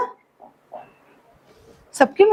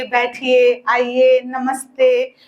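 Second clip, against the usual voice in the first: 1 lovingly welcoming; 4 semitones lower, much slower than usual. Shown as a demonstration. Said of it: "बहुत प्यार से उनको बोलेंगे".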